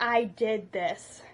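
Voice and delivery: slow, hushed mock-tragic line; dramatic remorse. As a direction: deliver it like the greatest line ever, slowly. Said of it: "So I'm like".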